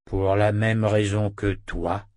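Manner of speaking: slow talking-wolf voice; loup parlant. Acted. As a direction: answer slowly as the wolf. (voix de loup lente)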